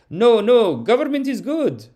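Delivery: put-on high, protesting refusal in an Arab accent. Reluctant revolutionary refusing the first ask, Arab accent. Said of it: "he says".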